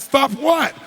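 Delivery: high, loud "Stop what?" with feigned innocence; mock innocent. Therapist playing innocent to the angry chairman, high and loud. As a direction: toss it back as if nothing happened.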